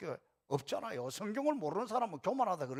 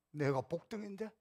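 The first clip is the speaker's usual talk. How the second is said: 복등인데 stressed softly, rising like a question to oneself; quiet inner question; 2 semitones lower, 5 dB quieter than usual. Shown as a demonstration. Pastor's silent reply to a critic, a soft rising 내가 복등인데. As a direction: murmur 내가 복등인데 with a soft rise. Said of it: "속으로".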